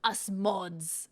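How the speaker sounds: slow, smug mock-proud quote; hammed-up empowered mod; lightly voiced mock pride. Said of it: "'Cause he was, like".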